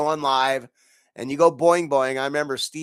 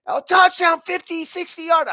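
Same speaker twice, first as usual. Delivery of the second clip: much higher, louder burst of joy; mock celebration; 12 semitones higher, 5 dB louder than usual. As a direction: cheer like the touchdown just happened. Reliving a big fantasy touchdown.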